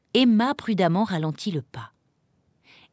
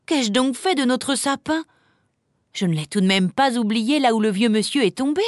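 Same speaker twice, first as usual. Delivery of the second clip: higher, incredulous self-questioning; dismayed realisation; 5 semitones higher than usual. Acted. Emma wondering where the tree went, dismayed. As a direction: puzzle aloud over what you lost.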